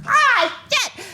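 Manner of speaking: high-pitched cry of dismay; mock horror. Traveler realising the gate is far, mock horror. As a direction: yelp as the bad news lands.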